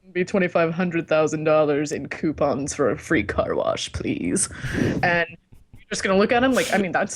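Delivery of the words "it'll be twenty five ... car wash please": mock-refined sales pitch; hammed-up snooty art seller; Saleh. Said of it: "So he's just like".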